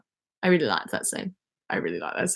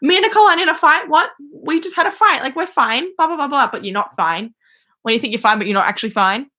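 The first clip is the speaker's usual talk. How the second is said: higher, fast, louder mock Waverly; 5 semitones higher, 3 dB louder than usual. Impersonating Waverly insisting she's fine with Nicole, higher and fast. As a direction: rattle it off high and defensive. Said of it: "she's like".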